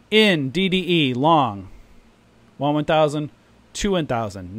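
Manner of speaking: 1 mock trade call. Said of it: "And I said".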